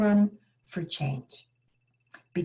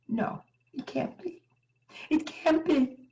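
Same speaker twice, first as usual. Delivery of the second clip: dread; 9 semitones higher than usual. Retold or imitated. Dreading the adoption falling through.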